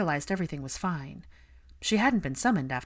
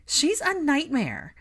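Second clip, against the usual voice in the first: blunt scorn; 9 semitones higher, 3 dB louder, slower than usual. A narrator's reading. Ginny drunk, blunt about Lisa.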